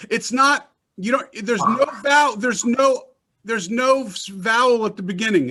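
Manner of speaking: animated correction. Real, not acted. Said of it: "correcting pronunciation animatedly".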